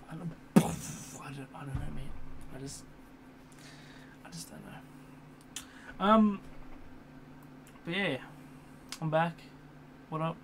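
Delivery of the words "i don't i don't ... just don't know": sighing resigned. Real, not acted. Sighing, trailing off.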